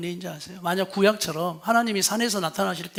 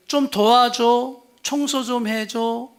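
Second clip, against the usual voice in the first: gentle request; 3 semitones higher, much slower than usual. Shown as a demonstration. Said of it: "비난 없이 우리가 부탁할 수 있을까".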